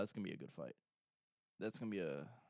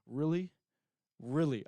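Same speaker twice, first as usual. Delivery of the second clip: incredulous; 3 semitones higher, 7 dB louder than usual. Real, not acted. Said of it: "reacting to the threat".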